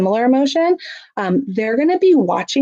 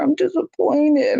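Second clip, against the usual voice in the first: high, slowed, overplayed disappointment; exaggerated disappointment; 8 semitones higher, slower than usual. Shown as a demonstration. Parent modeling disappointment for a child: overplayed high voice. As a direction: stretch the letdown so a child notices. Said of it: "we might go".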